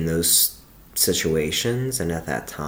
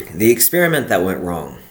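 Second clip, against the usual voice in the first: steady, earnest poem read; reading her own poem aloud. Acted. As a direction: read the verses out with care. Reads her old poem aloud.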